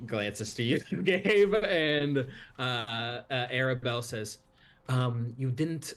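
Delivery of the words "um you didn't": higher at the end, indignant then sulky; girl's voice. Acted. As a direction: play a proud little girl caught out. DM voicing Arabelle.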